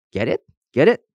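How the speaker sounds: pleased prodding, rising on the repeat; jokey. A narrator's reading. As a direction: nudge them to laugh at your joke. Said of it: "roaring heartily at his own joke".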